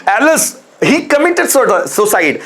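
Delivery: drawn-out grieving alas, slow; slow sorrowful alas. Shown as a demonstration. Teacher demonstrating grief to students, slow sorrowful exclamation. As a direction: sigh out the alas slowly. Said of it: "एलएस word दुख को प्रदर्शित".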